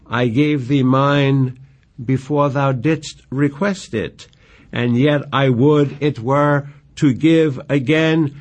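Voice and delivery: slow, measured verse recital; reciting Shakespeare with care; poem reading. Acted. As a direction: read the lines like a lover's plea. Reads Juliet's reply.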